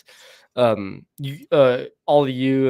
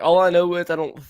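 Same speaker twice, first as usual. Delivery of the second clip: bewildered; 4 semitones higher than usual. Retold or imitated. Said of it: "then I'm like".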